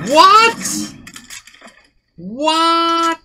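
high shocked cry. Real, not acted. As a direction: yelp it in disbelief. Shocked at sudden game kill.

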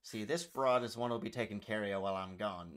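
old Hollywood Mid-Atlantic accent, badly faked; made-up Mid-Atlantic movie-talk accent; attempted Mid-Atlantic accent. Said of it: "I don't even know what accent that's supposed to be".

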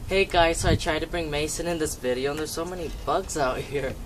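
perky camera host voice; fake on-camera voice. Real, not acted. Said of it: "I'm acting fake right now".

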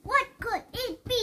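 curious excited. Acted. Child reads with suspense.

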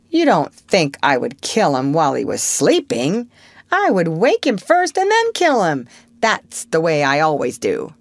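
protest, stung by the suggestion; indignant. Acted. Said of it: "Peter spoke indignantly".

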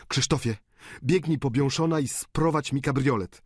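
understated urgent call to a servant; mild alarmed call. A narrator's reading. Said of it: "zawołał Eugeniusz, przerażony". (lekko zaniepokojone wołanie)

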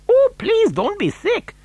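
high, fussing character voice; pleading. A narrator's reading. Wonka to queasy passenger, high and pleading.

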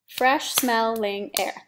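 Fresh smelling air, each syllable spaced out slowly; slow syllable count. Shown as a demonstration. Teacher shows students the syllables, slow and spaced. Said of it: "That's four syllables".

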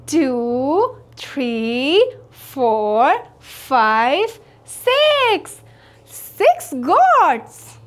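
normal talking voice

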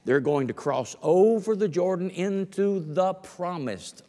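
preacher reading Joshua aloud; scripture reading. Acted. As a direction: proclaim the verses with force.

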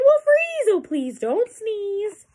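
high yelp easing into a slow plea; beg, drawing the words out high; worried begging. A narrator's reading. Fish begs the elephant not to sneeze, worried.

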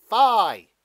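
booming high cry; a giant beanstalk bellowing its chant; loud cry. Acted. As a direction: cry it out so all can hear. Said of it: "it cried".

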